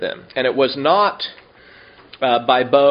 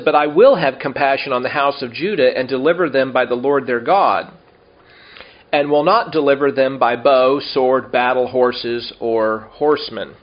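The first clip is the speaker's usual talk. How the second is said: louder, measured reading of the verse; scripture reading; 3 dB louder than usual. Acted. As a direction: read the verse with weight. Reads scripture aloud.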